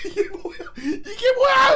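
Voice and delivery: high, loud shocked cry through laughter. Retold or imitated. Boy shocked in the bathroom, high laughing cry. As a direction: cry out in comic horror. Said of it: "이러면서".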